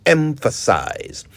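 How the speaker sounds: "Emphasize" said slowly, EM-pha-size; model pronunciation. Shown as a demonstration. Teacher models the word for radio listeners. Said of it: "notice the way I use the word emphasize".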